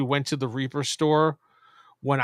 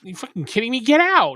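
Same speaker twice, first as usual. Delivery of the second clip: higher, louder mock yell; mock outrage; 6 semitones higher, 4 dB louder than usual. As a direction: kick him out, hammed up. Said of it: "so Brian was just like".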